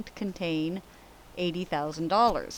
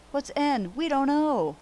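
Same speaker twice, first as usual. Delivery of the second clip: mock puzzled; 8 semitones higher, 5 dB louder than usual. Mock puzzlement, higher, louder.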